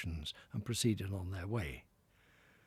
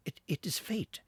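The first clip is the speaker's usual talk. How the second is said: Toad to himself; 9 semitones higher than usual. Acted. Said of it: "he said to himself".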